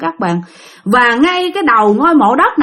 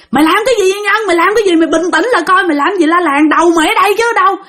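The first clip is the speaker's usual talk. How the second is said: higher, agitated retold scolding; urgent remonstrating; 6 semitones higher, faster than usual. Husband hugging his hysterical friend, raised urgent pleading. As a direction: act out trying to snap a friend out of it.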